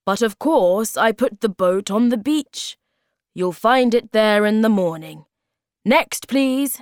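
high, loud, brisk Hobgoblin voice; confident storybook magician calling out; Hobgoblin in charge. Acted. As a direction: project it briskly, pitched well up.

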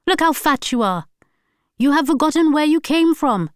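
loud, high angry shouting throughout; furious tirade. A narrator's reading. Wife raging at husband in fight, shouting. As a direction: she lashes out in fury.

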